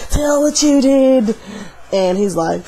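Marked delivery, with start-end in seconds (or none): 0.1-1.4 1 demanding repeat. Retold or imitated. Demon lady demands confession.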